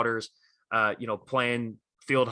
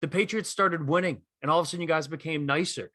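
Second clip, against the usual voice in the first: much higher, heated comeback voice; a rapper fired up; 5 semitones higher than usual. Retold or imitated. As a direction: fling the challenge back at him, pitched way up. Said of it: "He's like".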